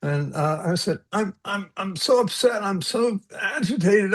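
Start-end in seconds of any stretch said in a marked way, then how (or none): 1.1-4.1 upset plea. Retold or imitated. Retold distress to brother-in-law.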